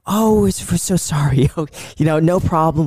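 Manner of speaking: high, sweet receptionist voice; chirpy office receptionist; front desk lady. Retold or imitated. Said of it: "And she'd be like".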